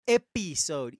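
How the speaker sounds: "Episode" with a clear EE in the middle, eppy-sode; corrected pronunciation. Shown as a demonstration. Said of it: "Episode, not episode".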